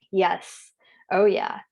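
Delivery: breathless whispered "Oh, yeah"; real whisper of recognition; whispered yes. Real, not acted. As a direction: whisper it as the chills hit. Feels body chills.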